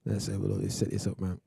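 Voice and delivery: soft, light Jamaican accent. Shown as a demonstration. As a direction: try the Jamaican lilt, quietly. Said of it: "I'm gonna try some Jamaican accent".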